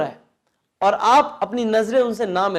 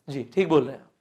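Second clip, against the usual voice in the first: sincere agreement; 7 semitones lower than usual. Shown as a demonstration. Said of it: "तो जब नॉड हमें करना है".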